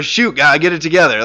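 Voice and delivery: a touch of whiny griping; mild mock exasperation. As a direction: scold God half-jokingly. Mock Jonah complaining to God.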